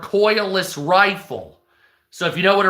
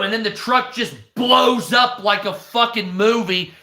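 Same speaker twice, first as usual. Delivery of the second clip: excited shout; 4 semitones higher than usual. Real, not acted. Excited retelling of truck exploding.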